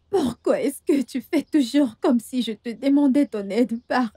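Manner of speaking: hurt protest. Acted. Dependent partner answering accusations of asking for help on purpose, hurt protest. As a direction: plead with wounded indignation.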